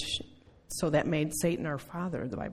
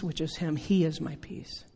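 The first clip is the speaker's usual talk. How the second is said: usual speaking voice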